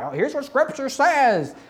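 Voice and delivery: high, drawn-up mocking voice; mock justifying voice. Preacher mocking people who justify with Scripture, high mock voice.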